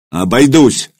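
barked. Acted. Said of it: "рявкнул Илья".

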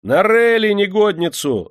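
high, loud, drawn-out cries; crowd shouting. A narrator's reading. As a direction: cry out for punishment from the crowd. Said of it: "закричали в толпе". (гневные крики толпы)

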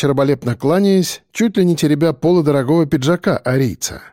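usual speaking voice

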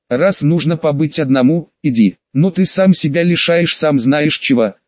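mumbled with face in pillow; muffled into pillow. Acted. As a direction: mutter it into a pillow. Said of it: "пробормотала девушка, уткнувшись лицом в подушку".

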